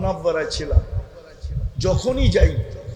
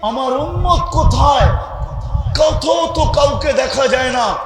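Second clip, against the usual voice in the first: high, raised lament, imitating distress without real sobs; retold tearful cry; 5 semitones higher than usual. The Prophet rising from the grave calls to Jibril, retold tearful cry. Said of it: "কাঁদতে কাঁদতে উঠবেন আর বলতে বলতে উঠবেন".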